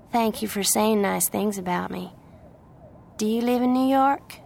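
lilting Southern voice, question rising high; friendly Southern young woman. Acted. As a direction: thank them sweetly in a Southern accent. Plays the Southern girl.

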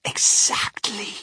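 high, drawn-out exclamation; slow, airy, high-pitched confirmation; delighted Mister Wonka. A narrator's reading. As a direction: stretch it out with relish.

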